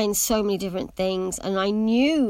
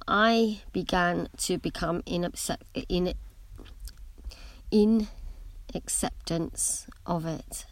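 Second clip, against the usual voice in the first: stumbling through braces; words tripping over braces; 3 dB quieter than usual. Real, not acted. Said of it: "Sorry, I've got braces".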